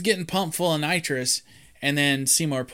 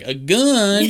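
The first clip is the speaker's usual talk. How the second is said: high, loud, laughing "A gun?"; laughing mock disbelief; 9 semitones higher, 6 dB louder than usual. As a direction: squeal it out through a laugh. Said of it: "He's like".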